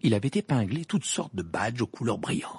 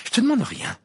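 higher and louder, snapping; angry outburst; 13 semitones higher, 6 dB louder than usual. A narrator's reading. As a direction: flare up at him. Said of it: "s'emporta Hermione".

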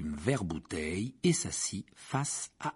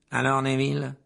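loud, cheery bus conductor; Stan's cheery voice; 3 semitones higher, 7 dB louder than usual. Acted. Stan the conductor greets his passenger, cheery. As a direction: call out brightly to the passenger.

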